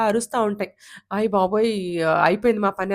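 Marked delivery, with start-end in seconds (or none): 1.1-2.9 loud, terrified yelp; scared cry. Acted. Baby rabbits in the pit cry out loudly as the fox digs.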